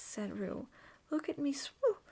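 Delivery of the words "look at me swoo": higher and louder gleeful cry; little Roo delighted, calling from the water; excited squeal. A narrator's reading. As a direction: shout it mid-splash. Roo bobbing in the stream.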